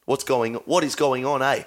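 South African attempt that sounds half Kiwi; South African accent drifting Kiwi. Shown as a demonstration. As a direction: try South African, landing near a New Zealand accent. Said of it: "Now that's, is that Kiwi?".

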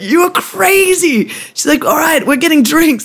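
high, slow mock voice of Salt; imitating Salt. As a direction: pitch way up for her. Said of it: "she was like".

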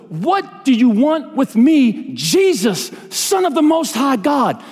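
high, slow, drawn-out cry; scripture shout. A narrator's reading. Preacher voicing the demons crying out to Jesus, scripture shout. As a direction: cry out each phrase as a preacher would. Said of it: "he shouted to the top of his voice".

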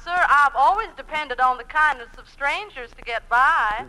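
lightly drawled Southern belle, sweet and coy; a hint of a Southern lady angling for favours; Southern belle accent. Woman asks the dancing professor for lessons, in a light Southern belle accent. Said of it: "pound cake with an accent".

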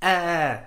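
half-hearted movie-comedian scream; mock yell. Imitating comedians who run and yell, mock yelp. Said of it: "they run and they yell".

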